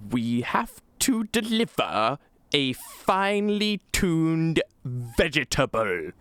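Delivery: slow, high, mock-snooty delivery; snooty voice actor. Gamer mocking the Thalmor voice actor, slow exaggerated snootiness. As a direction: draw it out like a hammed-up snob. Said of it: "Mister Snooty McSnooterson over there".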